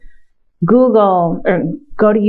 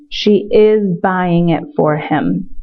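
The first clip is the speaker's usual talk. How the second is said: slow model sentence; slower than usual. Shown as a demonstration. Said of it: "translation read slowly".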